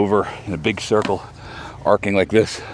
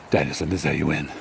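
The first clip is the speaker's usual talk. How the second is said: serious Mister Miyagi; 5 semitones lower than usual. Retold or imitated. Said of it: "Mister Miyagi's all serious".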